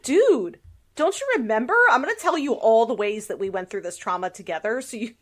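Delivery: a light mock of someone desperate to relive the past together; mock eager trauma-sharer. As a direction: play the pushy friend who won't drop it, half-joking. Mock pitch to a trauma partner.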